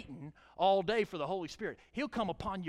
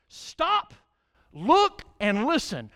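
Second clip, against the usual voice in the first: loud command; 5 semitones higher, 8 dB louder, much slower than usual. Acted. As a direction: Stop shouted high and loud, then look, listen. Preacher repeats coach's command.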